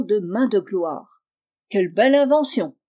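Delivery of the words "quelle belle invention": quick, eager cry of delight; a bright burst of wonder, faster; exclaiming. Acted. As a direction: blurt it out, marvelling. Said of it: "s'écria Eustache Bouteroue".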